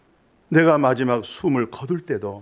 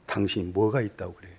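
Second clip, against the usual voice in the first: ordinary delivery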